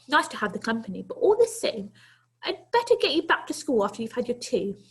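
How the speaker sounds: put-on a brisk granny inviting the boy in; kindly old lady. Old lady to the runaway boy, kindly coaxing.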